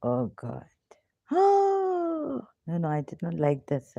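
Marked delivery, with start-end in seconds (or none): 1.3-2.4 long, high breathy "oh"; dismayed gasp. Real, not acted. Teacher dismayed at the unreadable display, high airy gasp.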